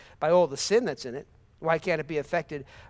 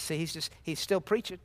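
normal talking voice

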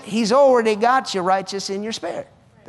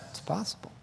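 whispered; 16 dB quieter than usual. Real, not acted. Answering his own question softly.

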